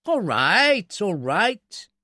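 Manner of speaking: high, grudging climb-down; blustering surrender. A narrator's reading. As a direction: give in with wounded bluster. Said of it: "The attempt to bluster".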